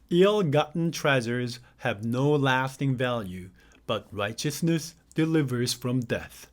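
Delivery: slow, careful read of the verse. Acted. Teacher reading a verse to English learners, slow and careful. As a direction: read each word out deliberately for learners. Reads verse aloud slowly.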